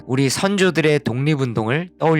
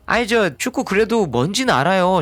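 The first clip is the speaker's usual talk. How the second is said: indignant students; 4 semitones higher than usual. Pretend. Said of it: "여러분들이 또 발끈하겠죠?".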